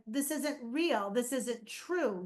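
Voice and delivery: slow, patient teaching to a son. Retold or imitated. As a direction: spell it out gently and slowly. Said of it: "teach him".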